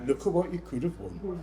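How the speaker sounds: lightly hammed-up Yorkshire accent; game-show catchphrase in a badly faked Yorkshire accent. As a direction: attempt a Yorkshire accent, amused. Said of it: "that was the worst Yorkshire accent".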